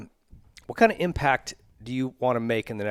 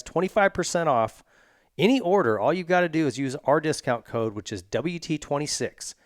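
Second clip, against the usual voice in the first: ad read. Acted. Host reads sponsor spots.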